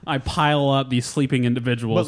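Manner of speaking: lightly hammed-up French accent; bad French accent. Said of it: "doing a bad French accent".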